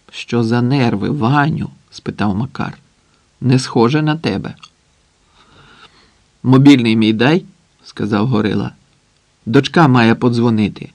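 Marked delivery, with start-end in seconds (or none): none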